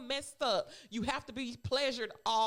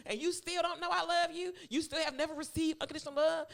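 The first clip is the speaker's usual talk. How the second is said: imitating a scolding mother; 4 semitones higher than usual. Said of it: "If I was her mother, I would have cussed her out".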